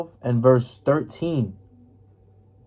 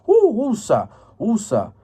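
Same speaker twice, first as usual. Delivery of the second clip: calming breath; 7 semitones higher, slower than usual. Acted. Calming breath after mock rebuke.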